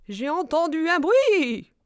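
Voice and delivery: high, loud, slow owl hoot. A narrator's reading. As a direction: hoot it out with swelling vowels. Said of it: "ulula le hibou". (ululement de hibou, aigu et traînant)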